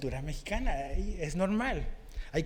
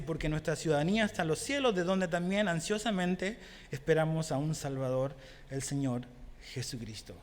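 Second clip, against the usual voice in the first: quick scripture reading, fading at the end. Shown as a demonstration. Preacher quoting Paul to the congregation, quick scripture read. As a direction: rattle off the verse, then let it fade. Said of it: "Pablo dice".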